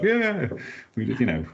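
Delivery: swagger in like an American power guy; Vince McMahon accent. Retold or imitated. Exec agreeing to buy a factory, in a brash American accent. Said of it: "it's my Vince McMahon accent".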